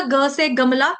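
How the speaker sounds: plain ग in गमला, no puff; careful ग to open गमला; unaspirated ग. Shown as a demonstration. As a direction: say गमला with a clean hard "g". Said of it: "ग, घ का ध्यान रखेंगे".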